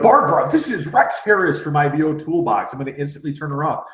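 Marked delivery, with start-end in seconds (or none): 0.0-2.7 blunt, businesslike cold-call opener; wrong way, brusque. Shown as a demonstration. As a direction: rattle off your name like a pushy salesman. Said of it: "I'm not gonna be like".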